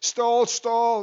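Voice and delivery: a stiff machine voice calling stall; computerized voice. Retold or imitated. Preacher imitating the cockpit stall alarm, robotic. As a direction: spell it out like an automated alarm. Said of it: "this computerized voice".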